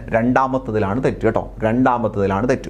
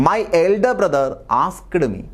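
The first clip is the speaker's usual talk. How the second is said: slow dictation read; 4 semitones higher, much slower than usual. Shown as a demonstration. Reading out exam sentence.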